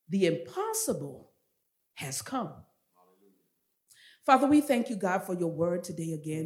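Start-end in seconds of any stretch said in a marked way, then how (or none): 4.2-6.5 earnest, flowing public prayer. Real, not acted. Preacher thanking the Father before the sermon, earnest prayer. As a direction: pray it aloud, phrase by phrase, settling down to the amen.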